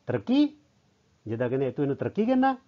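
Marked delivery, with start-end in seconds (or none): 0.1-0.6 high, incredulous acted question; disapproving grumble. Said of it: "ਉਹਨੇ ਬੁੜਬੁੜਾ ਕੇ ਇੱਦਾਂ ਕਿਹਾ". 1.7-2.6 high-pitched, incredulous challenge; disapproving grumble. Acted. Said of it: "ਉਹਨੇ ਬੁੜਬੁੜਾ ਕੇ ਇੱਦਾਂ ਕਿਹਾ".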